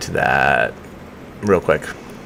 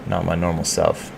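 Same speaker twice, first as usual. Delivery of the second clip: tired, sluggish hungover voice; 6 dB quieter than usual. Real, not acted. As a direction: drag through it like the morning after. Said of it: "I'm a little bit hungover today".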